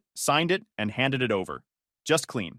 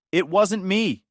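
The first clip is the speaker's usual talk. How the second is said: loud, higher denial; sister's loud denial; yelling; 7 semitones higher, 5 dB louder, slower than usual. A narrator's reading. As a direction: yell it defensively. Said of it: "she yelled".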